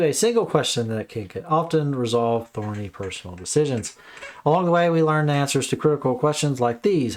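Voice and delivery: lively, measured book-jacket read; blurb read-aloud. Acted. Host reading a book blurb to viewers, read-aloud delivery. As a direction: read it out like promotional copy.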